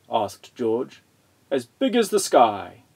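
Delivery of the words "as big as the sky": mild storybook roar; a touch of a grandfather's roar. A narrator's reading. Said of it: "roared Grandfather".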